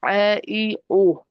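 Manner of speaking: full throaty eh e o; heavy. Shown as a demonstration. Teacher to students, demonstrating a heavy ain.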